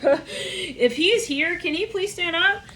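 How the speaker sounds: high-pitched, laughing through the words; amused, giggly plea. Real, not acted. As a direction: barely get the joke out for laughing. Laughing through joke about a rapper.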